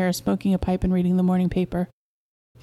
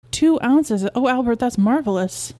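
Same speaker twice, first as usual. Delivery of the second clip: higher, louder astonished echo; delighted surprise; 5 semitones higher, 3 dB louder, slower than usual. Acted. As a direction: exclaim in thrilled disbelief. Wife delighted by the news.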